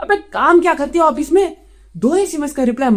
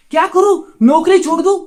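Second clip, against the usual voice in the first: exasperated outburst; 3 semitones higher, 4 dB louder than usual. Acted. Man protests girlfriend's demands over work, exasperated. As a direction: throw it out in fed-up frustration.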